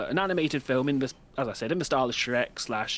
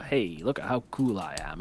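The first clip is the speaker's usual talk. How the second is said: lower, smug and laid-back; a lightly lowered, too-cool tone; 6 semitones lower than usual. Retold or imitated. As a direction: drop the voice to sound cool. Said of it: "low, like, not exactly sultry".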